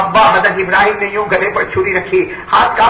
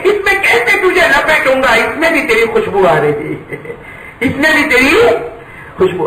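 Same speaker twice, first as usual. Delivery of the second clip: tearful father; 4 semitones higher than usual. Acted. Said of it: "फूट फूट कर रोने लगे और रोकर कहने लगे".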